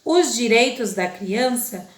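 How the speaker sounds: put-on slow, measured children's poem reading. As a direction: read the verses slowly to the kids. (lendo o poema devagar para as crianças)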